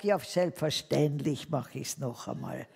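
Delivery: slow, laughing cheerful agreement. Retold or imitated. Answering the boss who dropped the cards, laughing. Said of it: "Und hab gelacht".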